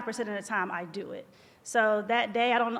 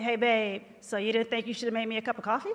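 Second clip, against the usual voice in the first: mock snippy husband; faster than usual. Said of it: "but you said".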